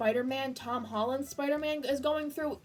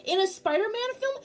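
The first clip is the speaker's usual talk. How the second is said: high, loud, near tears; overwhelmed fan near tears; emotional excited yelling; 9 semitones higher, 7 dB louder than usual. Real, not acted. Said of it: "Sorry for my incessant screaming".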